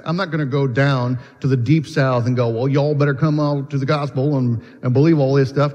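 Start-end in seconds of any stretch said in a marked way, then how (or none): 2.5-5.7 Southern drawl. Acted. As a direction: put on a bad Southern drawl. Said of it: "that's the worst accent in the world".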